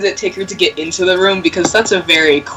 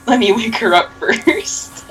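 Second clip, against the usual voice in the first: creepy doll whisper; 4 semitones higher, slower than usual. Acted. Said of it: "I used Bella to whisper".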